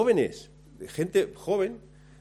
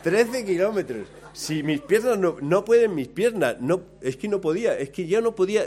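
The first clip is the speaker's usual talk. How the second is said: loud, much higher, half-laughing disbelief; despairing outcry; 5 semitones higher, 5 dB louder than usual. Retold or imitated. The exhausted runner hears thirteen kilometres remain, loud laughing despair. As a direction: cry out that you can't go on.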